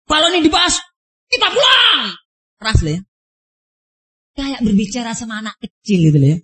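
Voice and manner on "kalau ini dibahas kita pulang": a touch of an angry higher voice; mock angry threat. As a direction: imitate him threatening to go home, higher pitched. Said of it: "berteriak keras, mengancam pulang". (tiruan marah yang lebih tinggi)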